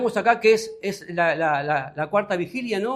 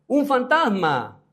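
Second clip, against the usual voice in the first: slow, higher, louder cry of fright; frightened cry; 6 semitones higher, 4 dB louder, slower than usual. Acted. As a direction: gasp it out as if seeing a ghost. Disciples see ghost, cry in fear.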